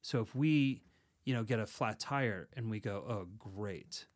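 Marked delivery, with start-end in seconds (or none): 3.1-4.1 softly sarcastic, understated. Acted. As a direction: say it with dry mock approval. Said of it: "if we rely too heavily on sarcasm".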